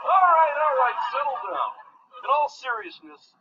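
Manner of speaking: high-pitched best man addressing a crowd; best man's speech. Acted. Best man to wedding guests who are wondering, high showy speech.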